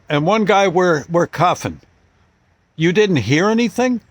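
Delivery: can you believe this guy; incredulous cop. Retold or imitated. Cop marvels that the father slept through it, incredulous.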